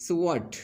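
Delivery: "So what" pitched high, meant as rising; rising intonation. Shown as a demonstration. Teacher demonstrating intonation, high-pitched "So what". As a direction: lift the voice on "So what". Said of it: "rising यहाँ पर है".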